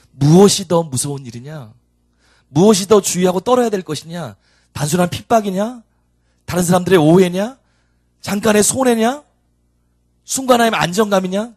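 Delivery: preacher voicing a stern divine challenge; impassioned challenge. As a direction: press each question harder, pitch climbing. Voices the Lord's challenging questions.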